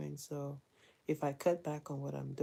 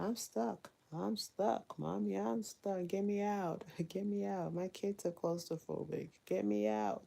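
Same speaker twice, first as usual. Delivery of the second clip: imitating child; 3 semitones higher than usual. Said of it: "she's like".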